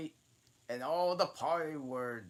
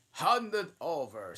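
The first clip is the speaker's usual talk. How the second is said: dodo's demand; 8 semitones higher, 10 dB louder than usual. A narrator's reading. Dodo demands the thimble.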